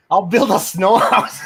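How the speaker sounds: slow put-on Australian drawl on snow house; crikey-style Aussie voice, hammed up; mock Australian accent. Friend asks him to say it with his accent, mock Australian. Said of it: "Say it with your accent".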